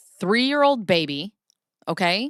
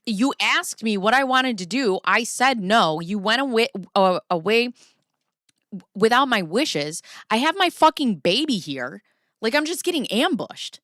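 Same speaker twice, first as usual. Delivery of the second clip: higher and louder, heated complaint; angry protest; 5 semitones higher, 3 dB louder than usual. Retold or imitated. To her family, upset at being ambushed, heated protest. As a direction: vent it like you're being cornered.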